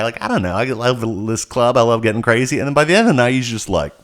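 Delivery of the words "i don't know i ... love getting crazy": lightly imitated effeminate man; effeminate guy. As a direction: put on a mild effeminate party-guy voice. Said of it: "like, non-binary, effeminate guy".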